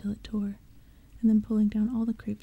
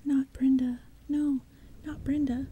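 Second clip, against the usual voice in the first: desperate denial; 4 semitones higher than usual. Acted. Denying friend's death.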